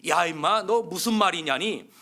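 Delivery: loud, rough jail-boss bark; gruff scolding. Acted. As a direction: snap at the kid who doesn't get it. Inmate scolding newcomer.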